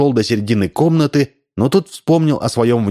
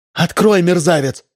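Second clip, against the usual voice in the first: screaming; 8 semitones higher than usual. A narrator's reading. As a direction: scream at him through the door. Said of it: "вопила она".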